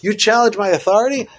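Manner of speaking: God sternly rebuking Moshe; strong stern rebuke. Acted. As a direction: scold Moshe from on high. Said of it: "That's what Hashem says to Moshe".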